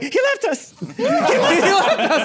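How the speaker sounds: very high, slow falsetto wail through laughter; mock a lady's despair; high drawn-out mock lament. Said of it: "you're like".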